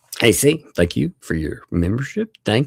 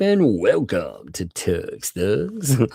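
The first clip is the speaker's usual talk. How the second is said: slow, drawn-out announcer welcome; lightly put-on show announcer; much slower than usual. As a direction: stretch the words out like an announcer. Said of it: "I like doing my announcer voice".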